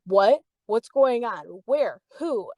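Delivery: rapid-fire retold questions, rising; mildly alarmed string of questions; startled questioning. Boyfriend's friend asking what's going on, startled. Friend reacts to threat news.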